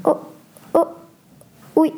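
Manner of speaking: halting, mildly fearful stammer; trembling with fear. A narrator's reading. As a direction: break the answer into hesitant, separate syllables. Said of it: "Tout en tremblant de peur". (réponse hésitante et apeurée)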